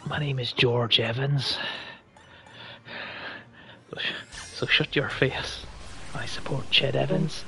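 put-on Northern Irish accent. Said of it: "Northern Irish accent".

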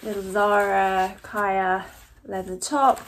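talking while crunching chips; munching between words. Real, not acted. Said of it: "sorry for the crunching here".

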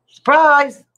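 high, loud playful surprise; laughing surprise. Real, not acted. Vlogger greeting Yasmin, bursting out laughing.

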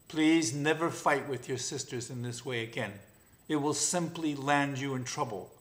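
calm, gentle mother's request; patient lioness. Acted. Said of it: "she said patiently".

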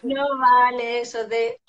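loud, slow, drawn-out ruling; emphatic objection. Real, not acted. Psychologist chiding parents using an excuse, loud playful objection. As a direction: call it out loudly, stretching the words. Repeats her objection loudly.

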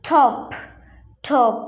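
"ঠপ" with a puff of air on the t; careful model "ঠপ", breathy th onset; aspirated t. Shown as a demonstration. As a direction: say "ঠপ" starting with ঠ. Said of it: "টিকে আমরা ঠ উচ্চারণ করি".

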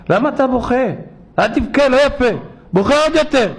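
high singsong hushing of an infant; cooing to a baby. Retold or imitated. Relatives hushing a crying baby, high and coaxing.

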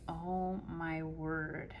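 slow, breathless whisper of dismay; whispered realization. Retold or imitated. Realizing to daughter she's old, whispered. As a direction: let it sink in, barely voiced. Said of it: "And I'm like".

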